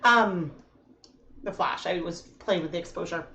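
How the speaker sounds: muffled through a respirator mask; talking through a rubber mask. Real, not acted. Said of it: "I'm so much more muffled now".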